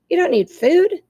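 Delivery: high, loud surprised question; can't believe it. Acted. Fox surprised robot needs no food.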